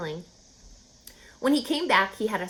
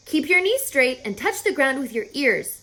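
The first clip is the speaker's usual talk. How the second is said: calling out; 5 semitones higher, 4 dB louder than usual. Acted. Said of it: "called Charlotte".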